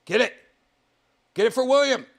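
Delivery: high, loud egging on; loud, gleeful urging; excited cheering. Real, not acted. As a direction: cheer it on like a fight fan. Cheering on creature on screen.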